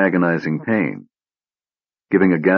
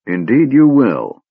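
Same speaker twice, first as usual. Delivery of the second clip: through clenched teeth; 6 semitones higher, 4 dB louder, slower than usual. Acted. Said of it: "through teeth clenched in pain".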